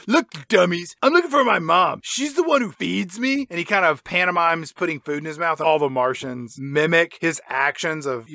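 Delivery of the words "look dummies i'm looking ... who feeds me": Milo. Acted. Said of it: "Milo says".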